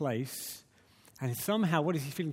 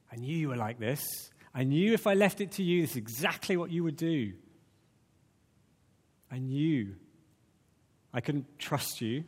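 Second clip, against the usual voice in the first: resentful reading. Shown as a demonstration. Preacher voicing Jonah's prayer as a bitter accusation. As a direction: throw it at God as a complaint. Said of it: "Or you can say".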